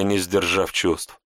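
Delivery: plain reading voice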